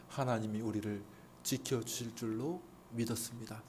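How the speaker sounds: quiet retold faith. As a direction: say it softly with quiet trust. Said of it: "이렇게 생각하는 것이 아니라". (조용하고 차분하게 믿음을 전하는 인용)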